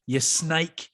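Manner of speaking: high, sing-song fake comfort; mock reassurance. Teammates teasing the young player, in high fake sympathy. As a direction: coo at him like you're on his side. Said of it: "we're like".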